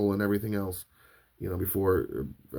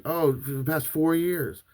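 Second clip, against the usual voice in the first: lightly voiced instructor; 7 semitones higher than usual. Instructor's casual answer.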